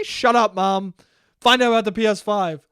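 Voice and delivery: exasperated son. Retold or imitated. Acted retort to chattering mom.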